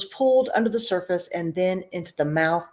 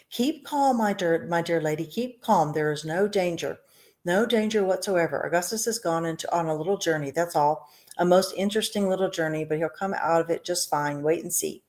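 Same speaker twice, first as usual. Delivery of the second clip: reassuring; 3 dB quieter than usual. Acted. Wonka reassuring the mother.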